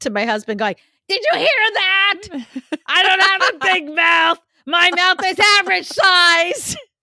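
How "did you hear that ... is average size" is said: very high, shrill, loud shouting. Retelling calling out to her husband in another room: imitating herself yelling. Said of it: "I turned and yelled out as loud as can be".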